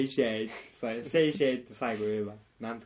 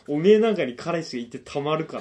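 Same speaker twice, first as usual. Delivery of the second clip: loud, laughing mock put-down; laughing jeer; 4 semitones higher, 8 dB louder than usual. Retelling his jab at the masseuse, laughing jeer. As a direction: jeer through a laugh, pitched up. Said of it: "笑いながら言ったら".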